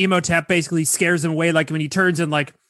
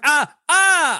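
mock scream; 7 semitones higher than usual. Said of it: "I screamed back".

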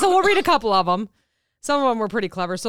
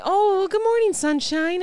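high sing-song greeting; sugary high cheerful hello; chirpy morning greeting; 8 semitones higher than usual. Retold or imitated. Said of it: "and I hate that".

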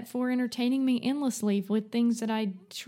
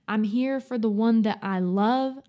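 sassy; 4 dB louder than usual. Retold or imitated. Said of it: "Sassy snap".

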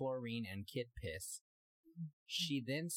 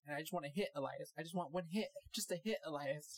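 whiny pleading; 6 semitones higher than usual. Retold or imitated. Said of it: "she is hella distraught".

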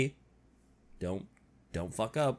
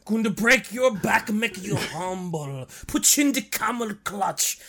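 Iron Sheik voice. Retold or imitated. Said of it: "That's Iron Sheik".

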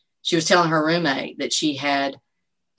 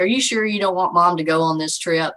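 teasing mom; 3 semitones higher, 4 dB louder than usual. Retold or imitated. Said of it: "trying to embarrass your kid".

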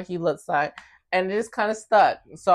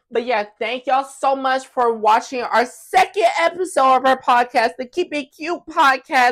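announcer sign-off; 4 semitones higher, 4 dB louder than usual. Real, not acted. Signing off the episode.

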